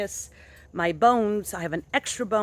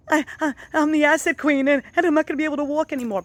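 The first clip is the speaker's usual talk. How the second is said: mock wailing; 8 semitones higher, 6 dB louder, faster than usual. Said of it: "I was crying, literally crying".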